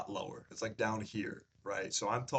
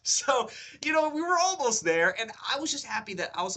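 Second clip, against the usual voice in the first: laughing; 11 semitones higher, 7 dB louder than usual. Real, not acted. Laughing retelling near miss.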